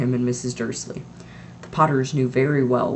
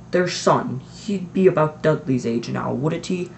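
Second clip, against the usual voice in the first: casual; slower than usual. Acted. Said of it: "as casually as he could".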